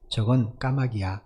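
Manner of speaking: slow, gently retold fatherly answer; smiling reply. Father patiently answering his little son, smiling. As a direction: say it slowly, with a hint of a smile. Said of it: "웃으면서 다시 말해줬다".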